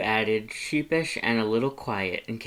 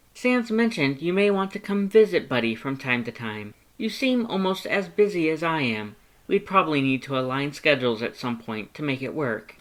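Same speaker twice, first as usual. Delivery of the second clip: high, bright-toned loud thanks; eager to help; cheerful Papyrus; 5 semitones higher, 4 dB louder than usual. Acted. Papyrus explains.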